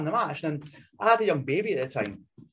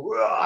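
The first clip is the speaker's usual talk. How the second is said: higher mock roar; mock battle roar; 5 semitones higher, 4 dB louder than usual. Wrestler re-enacting his charge at Mojo, mock roar. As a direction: imitate a charging yell.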